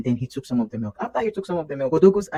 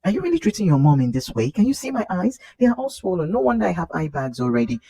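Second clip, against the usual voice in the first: exasperated complaint; 5 semitones higher, 4 dB louder than usual. Retold or imitated. Mom complains to baby.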